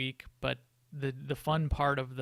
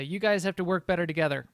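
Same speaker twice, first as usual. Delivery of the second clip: fast, louder firm lecture; firm scolding; 3 semitones higher, 6 dB louder, faster than usual. Retold or imitated. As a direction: put your foot down. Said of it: "put my foot down and say".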